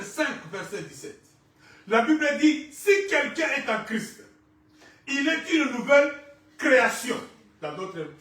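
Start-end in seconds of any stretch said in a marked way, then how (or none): 1.9-7.2 raised, ringing declaration to the congregation; forceful preaching. Real, not acted. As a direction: proclaim it loudly, stretching key words.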